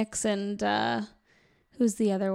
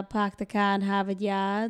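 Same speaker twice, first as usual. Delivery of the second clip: Boston accent. Shown as a demonstration. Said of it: "I could drop a line or two with".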